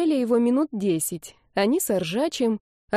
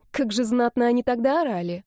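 ordinary delivery

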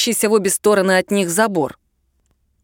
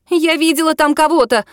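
excited announcement; 7 semitones higher than usual. A narrator's reading. The friend spots someone in the dark, excited outburst. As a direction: blurt it out. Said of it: "вдруг объявила".

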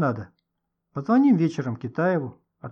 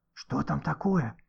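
slow, much softer, hushed and impatient; impatient whisper; 5 dB quieter, slower than usual. Acted. Goshka presses Nikita during the call, impatient whisper. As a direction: hiss the question so the phone won't hear. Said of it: "нетерпеливо шепнул Гошка".

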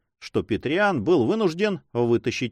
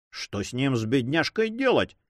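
mocking. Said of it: "насмешливо спросил Петриан".

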